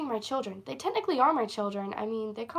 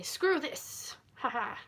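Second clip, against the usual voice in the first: mock eleven-year-old; 3 semitones higher, slower than usual. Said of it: "eleven-year-old would say".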